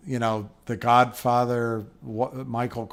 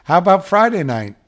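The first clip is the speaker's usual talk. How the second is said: persistent comeback; 7 semitones higher, 8 dB louder than usual. Retold or imitated. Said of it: "he looks at her and he goes".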